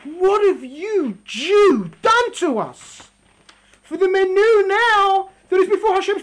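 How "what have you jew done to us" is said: terrified question. Acted. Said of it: "they asked him".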